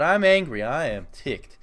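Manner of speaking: hammed-up anger burst; mock anger. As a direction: play up fake outrage. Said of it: "because I'm so angry".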